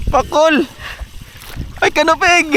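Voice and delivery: high cry naming the fish; excited cry. Real, not acted. Angler naming his catch, excited. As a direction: call out the catch.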